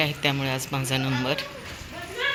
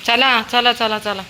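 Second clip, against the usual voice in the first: calling dog home; 7 semitones higher than usual. Real, not acted. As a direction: order the dog home, getting impatient. Owner calls dog home.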